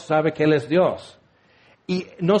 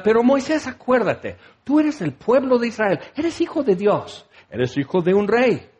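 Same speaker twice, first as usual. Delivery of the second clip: hammed-up, earnest-sounding pep speech; mock rousing reminder; 3 semitones higher than usual. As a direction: urge someone to remember who they are. Mock identity speech God withholds.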